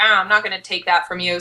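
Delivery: ordinary delivery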